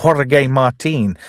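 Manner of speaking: slow mock Spanish pronunciation of the name; Spanish accent. Film recapper giving George's alias, mock Spanish accent. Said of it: "Sorry, I did a voice there".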